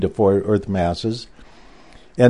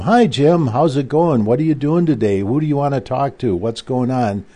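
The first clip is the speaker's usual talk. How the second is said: imitating a bright, chatty receptionist, pitched higher; light, cheery mock greeting on the phone; chirpy friendly secretary; 3 semitones higher than usual. Imitating how the secretaries used to greet Jim, cheerful and chatty.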